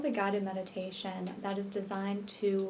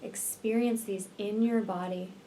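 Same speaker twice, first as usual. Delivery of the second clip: unhurried meditation voice with long pauses; guided meditation; 6 dB quieter than usual. Real, not acted. Healer leading listeners to visualize twin flame union, guided meditation. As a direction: guide the listener gently into relaxation, leaving space between phrases.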